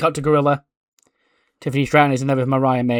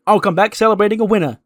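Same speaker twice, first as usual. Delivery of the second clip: higher, louder, fast cocky send-off; mock diva boast; 7 semitones higher, 4 dB louder, faster than usual. Tiffany telling Mariah she'll win, cocky. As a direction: breeze out promising victory.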